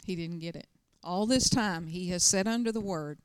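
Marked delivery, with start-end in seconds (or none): 0.0-0.7 quiet lament. Retold or imitated. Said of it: "bowed his head and he said".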